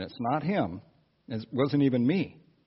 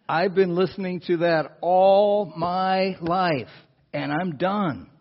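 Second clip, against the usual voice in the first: louder, higher, slow defiant protest; fed-up outburst; 5 semitones higher, 5 dB louder, slower than usual. Retold or imitated. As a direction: stretch it out in mounting exasperation. Retold defiant outburst in the cab.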